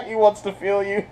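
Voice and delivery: laughing while mocking the pitch. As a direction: giggle out the line. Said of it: "she was like".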